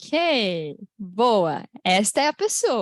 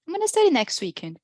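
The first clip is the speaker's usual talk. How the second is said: fast linked speech; 5 semitones higher, faster than usual. Shown as a demonstration. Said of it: "Eu posso falar".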